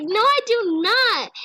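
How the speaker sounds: high, drawn-out protest; mock indignant retort. Cat answering back to teasing owner, mock indignant.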